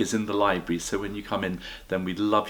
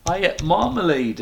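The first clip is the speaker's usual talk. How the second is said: bear voice; 9 semitones higher, 4 dB louder than usual. Acted. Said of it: "it said".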